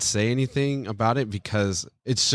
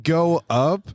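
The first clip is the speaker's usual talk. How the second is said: mild, raised-pitch yell; retold yell; 6 semitones higher, 3 dB louder than usual. Recalling his one recorded line in a joke, retold yell. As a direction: call it out higher, only half yelling. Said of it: "it's just me yelling".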